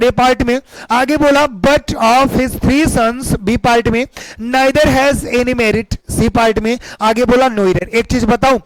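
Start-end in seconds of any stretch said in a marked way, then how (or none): 1.6-3.3 very slow, each word drawn out; slow dictation. Shown as a demonstration. Teacher reading the sentence aloud to students, very slowly. 4.5-6.0 slow, even read-out; slow dictation. Shown as a demonstration. Teacher reading the example to students, slowly and deliberately.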